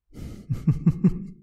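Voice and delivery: breathy eerie cackle; ghostly whispered cackle of glee. Acted. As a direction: cackle in a whisper like a gleeful spirit. Ghost delighted by visitor.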